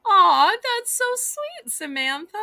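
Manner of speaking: touched cooing. Real, not acted. Seller thanking Samantha for something sweet, touched cooing. Touched by a viewer's kind gesture.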